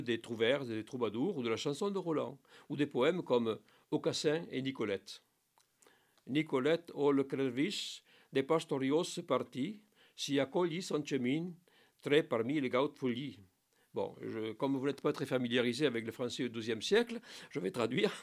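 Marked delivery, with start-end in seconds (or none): 6.3-13.4 lightly chanted medieval recitation; a touch of poem reading; Old French verse recital. Acted. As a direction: recite the old lines with care.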